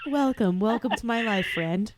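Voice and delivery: loud laughing welcome. Real, not acted. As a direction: say it through real laughter. Laughing welcome after stomach story.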